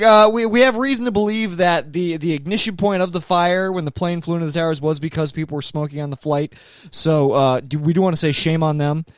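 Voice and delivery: a hint of a news anchor; newscaster voice. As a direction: read it like a TV anchor. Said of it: "just a fucking newscaster voice".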